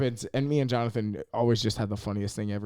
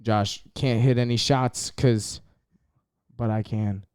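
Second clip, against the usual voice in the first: loud teasing; 5 dB louder, slower than usual. Acted. Teasing announcer-style jab.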